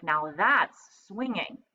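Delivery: slow, savoring monkey voice; impressed monkey. Acted. Mike admires Napoleon, slow and impressed. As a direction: stretch it out admiringly. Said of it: "said Mike".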